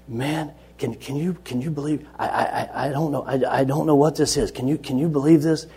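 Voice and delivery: mildly worked-up disbelief, stumbling over the words; excited boy. Retold or imitated. Astonished kid tells the teacher what he read, excited stammering. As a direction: imitate a kid tripping over himself with excitement. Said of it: "the boy's getting really excited".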